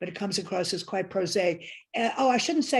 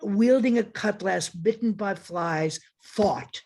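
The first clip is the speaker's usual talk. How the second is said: slow, deliberate recital with a lowered, stressed "fought" at the end; emphasis on fought; slower than usual. Shown as a demonstration. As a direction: linger on "bitten by flies", then drop onto "fought". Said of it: "with all the emphasis on fought".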